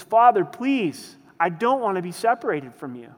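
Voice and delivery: Jesus pleading with the Father, anguished; anguished plea. Retold or imitated. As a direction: plead not to be cut off from the Father.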